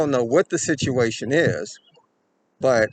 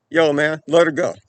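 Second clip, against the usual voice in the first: louder, commanding retold order; firm demand; 3 semitones higher, 6 dB louder than usual. Bystander ordering the abductor to release her, loud. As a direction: tell him straight to let her go.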